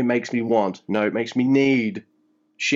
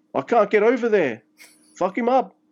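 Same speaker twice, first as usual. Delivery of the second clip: put-on very high-pitched, botched New Zealand accent; 10 semitones higher than usual. Retelling Farley ringing up Bullet Club, speak in a bad Kiwi accent. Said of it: "That's my really bad um, Kiwi accent".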